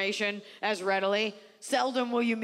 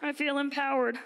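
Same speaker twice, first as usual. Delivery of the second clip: higher, shouted mock party girl; girl shouting from the back; 6 semitones higher than usual. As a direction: yell it proudly across the room. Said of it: "She's in the back".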